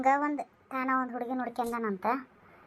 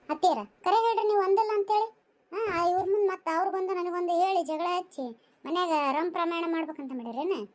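high-pitched indignant challenge; raised-voice protest; 4 semitones higher than usual. Acted. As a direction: confront your mother-in-law, pitch jumping up. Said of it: "ಅವ್ಗ ಅಷ್ಟ್ ಜೋರ್ ಜೋರ್ ಮಾತಾಡ್ತೀಯಲ್ಲ".

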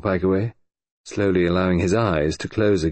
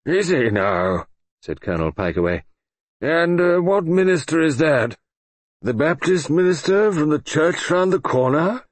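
higher, louder, slow and mocking; sardonic old colonel; 9 semitones higher, 3 dB louder than usual. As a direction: drawl it out with dry scorn. Pikeaway mocks the visit.

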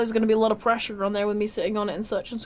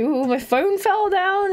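slowed, higher mock dismay; retold alarm; 6 semitones higher, slower than usual. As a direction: mimic your own startled cry, milder. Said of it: "it was like".

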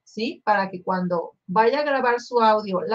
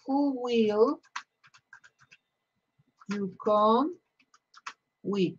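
"who will you come with" spaced out word by word, softer; slow broken-up question; 4 dB quieter, slower than usual. Shown as a demonstration. Teacher spacing out the question word by word. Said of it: "La entonación".

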